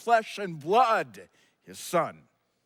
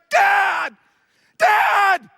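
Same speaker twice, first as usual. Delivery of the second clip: high, loud imitated scream for Dad; screaming child; 9 semitones higher, 9 dB louder than usual. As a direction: scream out like a hurt child calling for help. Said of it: "No, he's screaming".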